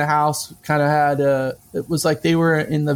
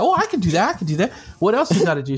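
eager; 3 semitones higher, faster than usual. Retold or imitated. Eager reply to church lady.

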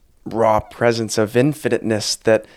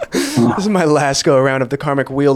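laughing parody; 3 semitones higher than usual. Retold or imitated. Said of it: "parodies ego line".

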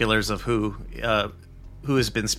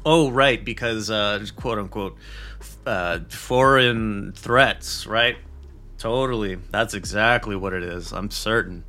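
sarcastic. Real, not acted. Mocking the official excuse.

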